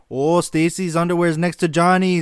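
a hint of a complaining neighbor; scandalized neighbor. Acts outraged neighbor calling cops.

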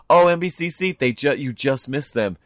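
high, emphatic protest; hammed-up disbelief at being told this; acted indignation. Paddler disputing the lady's story, indignant mock protest.

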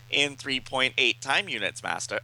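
lightly voiced robot dog. Robot dog reporting to its master, lightly imitated. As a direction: report like a dutiful robot pet. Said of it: "I felt like doing K nine's voice".

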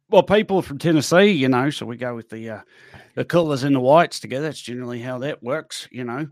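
loose attempt at New Zealand speech; Kiwi accent. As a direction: chat like a Kiwi laundromat customer. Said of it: "Kiwi Laundromat".

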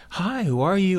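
bright high greeting to a stranger; curious greeting. Retold or imitated. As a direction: chirp the hello, pitched well up. And I was like.

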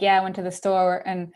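mock Philly accent, coming on strong; hammed-up Philadelphia accent for a store story. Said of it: "That's the Philly accent right there".

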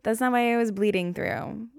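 high, loud stammered objection easing down; defensive protest. Retold or imitated. Solo host mocking her own need to explain herself, defensive protest. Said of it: "I love how I had to be like".

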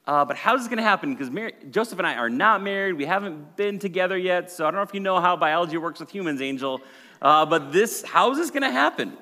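put-on high, loud, fast, disbelieving young woman; flustered Mary. Preacher voicing Mary questioning the angel, loud and incredulous. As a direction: play Mary baffled at the angel. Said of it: "she's like".

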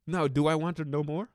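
stage whisper to the audience. Acted. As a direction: lean in and whisper the question. Rhetorical teaser before the answer.

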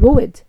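road stretched into two syllables, ro-ad, Scottish style; extra syllable in road. Real, not acted. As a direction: say road with an added syllable in the middle, ro-ad. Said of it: "I put an extra syllable in there".

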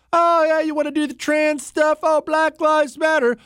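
high, mock-eager put-on shop clerk voice; mocking bookseller. Host mocks a bookseller pushing woke kids' books, high mock-eager voice. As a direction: lay it on thick, sneering at the clerk.

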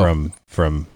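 deep monster voice filter. Real, not acted. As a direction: voice changer monster effect. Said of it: "I got the monster voice on there".

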